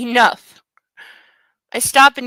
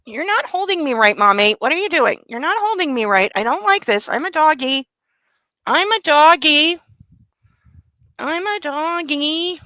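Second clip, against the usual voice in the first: voicing the dog; 2 semitones higher than usual. Owner voices her puppy complaining about being held, lightly whiny. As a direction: play the fussy dog complaining, slowing on doggy. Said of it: "he's like".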